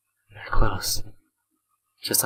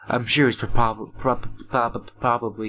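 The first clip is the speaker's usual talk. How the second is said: stuttering; slower than usual. Real, not acted. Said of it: "as you can tell from my stuttering".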